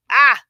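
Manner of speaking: short loud mock-overwhelmed cry. Host acting out holiday overwhelm to listeners, short loud cry. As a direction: blurt a sudden loud "ah".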